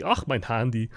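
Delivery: lightly camp mock German; camp German accent. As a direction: put on a fussy German accent. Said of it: "Sounds so camp".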